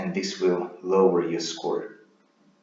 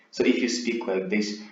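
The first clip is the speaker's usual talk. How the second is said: said flat, pitch neither rising nor falling; bored, level monotone with no ups or downs. Shown as a demonstration. Candidate answering a boring exam question, monotone. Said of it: "their voice is monotone".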